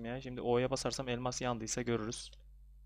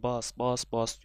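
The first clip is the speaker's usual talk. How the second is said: urging inner voice; 7 dB louder, much slower than usual. Retold or imitated. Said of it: "İçimden bir ses var ya".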